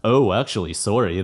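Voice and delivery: ordinary talk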